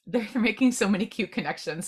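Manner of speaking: giggling through the words; laughing. Real, not acted. Reader laughing at the spirits' cute connections. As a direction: let real laughter spill into the line. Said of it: "if I have a couple laughs".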